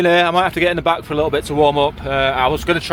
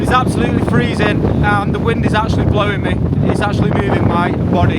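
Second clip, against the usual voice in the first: raised voice against a gale; shouting over wind; 4 semitones higher, 4 dB louder than usual. Real, not acted. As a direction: call out loud over the wind. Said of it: "I don't even know if you can hear me through the wind".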